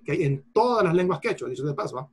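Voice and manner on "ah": usual speaking voice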